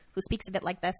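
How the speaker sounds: lightly voiced American little girl. Shown as a demonstration. Podcaster showing her failed accent, lightly voiced American little girl. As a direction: put on a small American girl voice. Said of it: "turn into this little girl".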